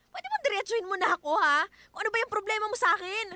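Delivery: wife confronting husband, loud and sharp; demanding. Acted. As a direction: push him to say it straight.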